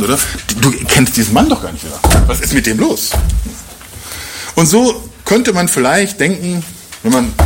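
ordinary delivery

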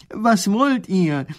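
high, loud, slow call into the hole. Acted. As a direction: shout down into the dark. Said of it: "Er ruft hinunter".

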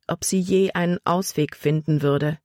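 usual speaking voice

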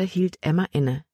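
usual speaking voice

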